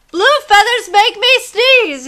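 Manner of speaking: high, loud, slowed monkey voice; sneezy monkey. Acted. Monkey complaining to the rooster, high sneezy voice. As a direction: squeak it out between sneezes. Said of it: "he said".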